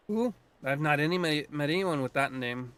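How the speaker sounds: put-on light Scottish lilt for the old druid; a hint of Scottish brogue, gruff and proud; lightly voiced Scottish druid; Scottish accent. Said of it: "I'm giving him a Scottish accent".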